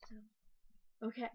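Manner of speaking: under-the-breath whisper; whispered aside. Real, not acted. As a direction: whisper it to yourself. Muttered aside after trailing off.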